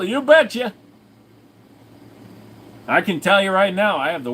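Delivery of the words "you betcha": high goofy character yelp; put-on voice. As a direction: chirp it like a cartoon yokel. Answering chat in a put-on voice.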